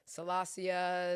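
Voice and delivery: Salasia said slowly as a wrong version; mispronounced name. Retold or imitated. Guest imitating people who say Salasia. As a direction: drag out Salasia like a stranger reading it. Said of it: "But I've heard".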